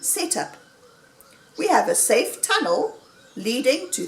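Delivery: lively oratory with high swoops in pitch; rousing speech. A narrator's reading. Mister Fox persuading the diggers to stay underground, speechifying. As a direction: win the room over point by point.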